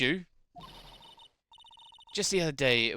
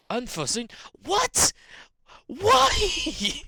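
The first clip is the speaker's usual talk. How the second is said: much higher, louder cries of disbelief; shocked outcry; 6 dB louder, slower than usual. Acted. Streamer voicing Maya hearing the show is cancelled, shocked. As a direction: yelp it in sudden shock.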